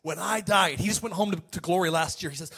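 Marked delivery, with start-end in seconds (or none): 0.0-0.8 lightly imitated German accent. Preacher quoting a German evangelist, German accent. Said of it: "in his German accent".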